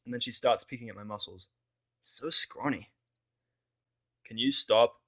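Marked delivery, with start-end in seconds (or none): 2.0-2.9 a cocky tomboy's scoff, lightly voiced; Rainbow's retort. Rainbow Dash teasing the narrator about being scrawny, cocky scoff. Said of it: "Rainbow retorts". 4.2-5.0 a sharp, louder snap; snapping. Acted. Narrator snapping at Rainbow to stop peeking, irritated snap. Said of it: "I snap at her".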